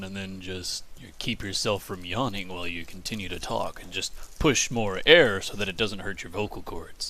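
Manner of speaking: demonstrating a slightly deepened, yawning voice. Shown as a demonstration. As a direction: talk as if holding back a yawn. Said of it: "lowering your voice thing".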